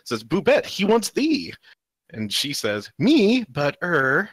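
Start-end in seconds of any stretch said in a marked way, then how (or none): 0.2-1.5 a touch of teasing. Acted. Comic figure teasing her friend. 3.0-4.3 surprised squeak. Acted. Shy figure surprised to be picked.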